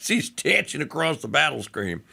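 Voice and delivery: ordinary delivery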